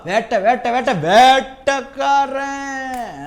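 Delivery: loud, slow hero chant; swaggering movie one liner. Retold or imitated. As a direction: punch it out like a hero. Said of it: "தளபதி சொல்லுவார் தெரியுமா".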